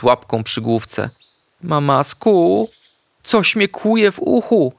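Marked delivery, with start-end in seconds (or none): 1.6-4.7 wysoki, cichutki głos chorego szczeniaczka; smutno. A narrator's reading. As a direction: jak smutny piesek z bolącym uchem. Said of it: "powiedział smutno". (smutny, piskliwy głosik pieska)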